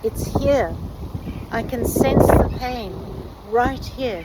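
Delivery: loud, high excited call; calling out excitedly. A narrator's reading. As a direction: call out that you found it. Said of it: "she called out to Radian".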